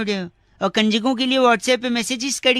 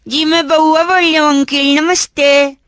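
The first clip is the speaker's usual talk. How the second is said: put-on girl voice; 4 semitones higher, 5 dB louder than usual. Caller in put-on feminine voice.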